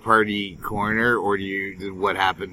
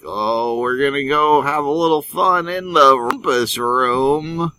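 1950s flirty voice; 7 semitones higher, 6 dB louder than usual. Pretend. Fifties dirty couple voice.

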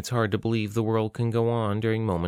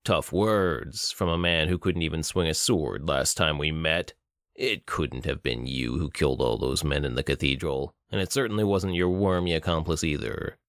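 menacing villain; 5 semitones lower than usual. Acted. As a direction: savor each taunt like a cruel captor. Bruto taunts Jonathan.

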